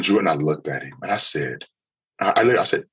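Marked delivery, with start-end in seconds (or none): none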